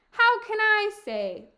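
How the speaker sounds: high, loud retort; exclaimed, put-upon storybook retort; dismissive old woman. Acted. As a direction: brush them off as a busy old woman. Frowning Befana brushes off the kings.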